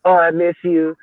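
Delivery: a hammed-up gushing buddy, quickening at the end; mock fawning. Mocking a coach gushing to his rival after a loss, hammed-up and gushing. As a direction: gush over the rival coach like an old friend, mocking it. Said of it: "go out there".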